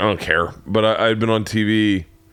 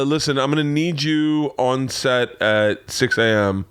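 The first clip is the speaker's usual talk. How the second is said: authoritative boss; 4 semitones higher, slower than usual. Retold or imitated. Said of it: "Like, really authoritative".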